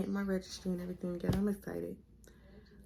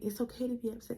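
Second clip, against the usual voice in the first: higher-pitched, gently consoling imitation; apologetic reassurance; 5 semitones higher, faster than usual. Ultrasound tech comforting the shocked patient, apologetic reassurance. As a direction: gently give permission to be upset. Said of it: "Everybody was just so apologetic".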